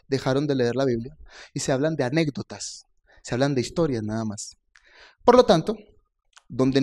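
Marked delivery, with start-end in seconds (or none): 5.2-5.8 "Por lo tanto" higher and louder, punched; emphatic preaching. Acted. Preacher driving home the point to congregation: loud emphatic "Por lo tanto". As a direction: hit "Por lo tanto" hard like a pulpit conclusion.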